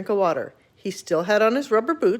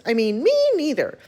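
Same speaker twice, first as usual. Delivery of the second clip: small mouse voice, set higher; tiny voice; 4 semitones higher than usual. Acted. Mouse correcting himself, tiny and timid. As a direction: repeat it as a timid little mouse. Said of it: "said a tiny voice".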